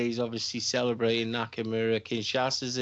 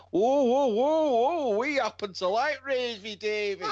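high, loud, squealing mock protest; mocking women's voice; 12 semitones higher, 6 dB louder than usual. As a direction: squeal it like offended fans. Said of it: "the two women actually fucking like".

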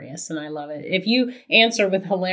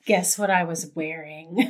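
lightly voiced hotline come-on; a hint of phone-line tease; mock-sultry, a touch low; nine hundred voice; 3 semitones lower, 4 dB quieter than usual. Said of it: "like, a nine hundred voice".

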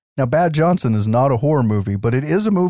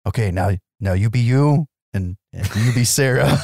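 badly faked Eastern European accent, only lightly put on; terrible Eastern European accent. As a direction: attempt a rough Eastern European therapist accent. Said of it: "in my terrible fucking accent".

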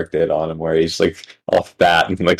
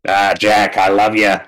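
comic impersonated father; mock-affectionate tough-guy impression; Joey Diaz. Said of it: "want him to call me son".

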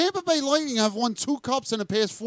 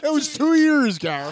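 laughing; 6 semitones higher than usual. Real, not acted. Laughing insistence against friend.

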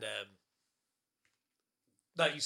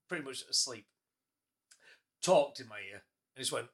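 usual speaking voice

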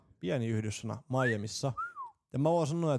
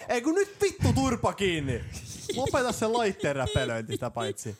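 mock angry shout; 7 semitones higher, 5 dB louder than usual. Host yelling at his teasing co-host to shut up, mock angry. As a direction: bark it like a fed-up host, half joking.

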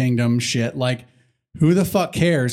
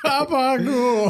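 slow, higher New York Italian gabagool; heavy New York accent; 9 semitones higher, much slower than usual. Retold or imitated. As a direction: stretch out gabagool like a Jersey deli guy. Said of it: "We need a super New York accent".

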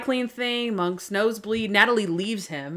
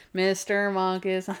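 imitating a slow, dreary title reveal; playfully mournful, slowed announcement; mock depressing. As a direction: drag it out gloomily, in jest. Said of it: "I like how depressing our thing is".

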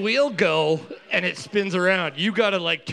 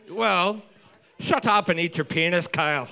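put-on Braveheart accent. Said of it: "you are doing the Braveheart accent".

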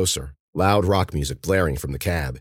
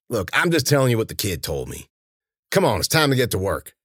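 raised, brusque henchman voice; Warner, impatient henchman; 5 semitones higher than usual. A narrator's reading. Henchman ending the debate to start work, impatient. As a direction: wave off the argument and get moving.

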